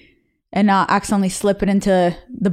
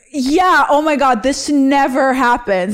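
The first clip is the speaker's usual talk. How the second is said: acted brush-off, pitched up a little; feigned nonchalance; 4 semitones higher than usual. Injured girl reassuring her crush, mock nonchalant. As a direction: play down an injury a bit too brightly.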